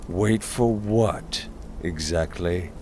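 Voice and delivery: hard mocking voice. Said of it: "his voice hard".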